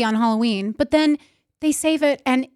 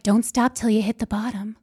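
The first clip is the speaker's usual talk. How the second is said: ad voice. Retold or imitated. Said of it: "I don't know why I said it in that voice".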